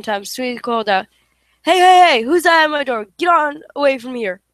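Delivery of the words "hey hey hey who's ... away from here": loud, higher shout at the door; loud call into the dark. Acted. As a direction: holler to scare off whoever's outside. Smee calls out at intruder.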